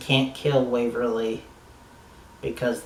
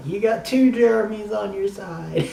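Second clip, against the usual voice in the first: much higher-pitched mock cheer, sliding gradually down; retold exclamation; 9 semitones higher, 4 dB louder than usual. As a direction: call it out high, as if cheering on a character. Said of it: "So I was like".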